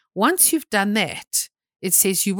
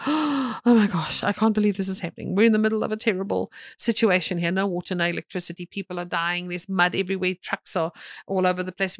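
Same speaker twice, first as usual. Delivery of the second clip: retold panic; faster than usual. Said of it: "when I felt the prick in my heart".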